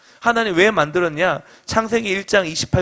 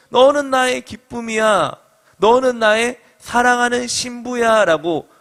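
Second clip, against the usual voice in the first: proclaiming; 4 semitones higher, slower than usual. Shown as a demonstration. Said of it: "외치는 겁니다".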